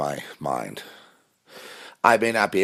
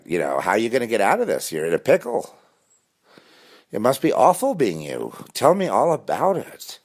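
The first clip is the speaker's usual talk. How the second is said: a hint of a nosy fan, higher and fast; gossiping stranger; 3 semitones higher than usual. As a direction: tease him like a viewer of his show. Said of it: "you been watching?".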